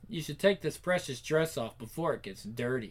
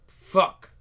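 startled curse; 10 dB louder than usual. Acted. Caught by father.

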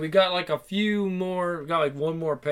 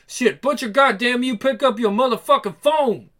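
high-pitched, urgent exasperation; acted agitated phone rant; frantic cursing; 5 semitones higher, 3 dB louder than usual. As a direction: plead angrily with someone who won't answer. Character cursing an unanswered call.

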